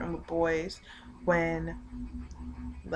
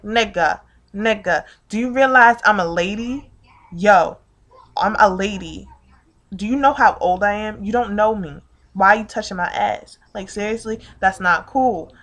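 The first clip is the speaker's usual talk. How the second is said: louder, heated confrontation; indignant telling-off; 7 dB louder than usual. Retold or imitated. Woman confronts man who touched her, indignant. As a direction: confront him with forceful indignation.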